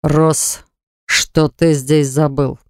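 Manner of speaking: low, slow cold demand; through gritted teeth. A narrator's reading. Lord confronts the intruder, low and cold. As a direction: press each word out coldly. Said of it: "Лэрд процедил".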